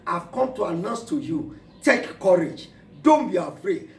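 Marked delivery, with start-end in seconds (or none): 1.8-3.9 forceful preaching. Acted.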